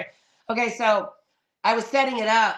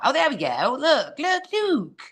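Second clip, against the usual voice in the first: high, rising delighted exclamations; real excitement at spotting someone; excited; 6 semitones higher than usual. Real, not acted. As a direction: climb higher with each repeated word. Guest's picture finally appears on screen.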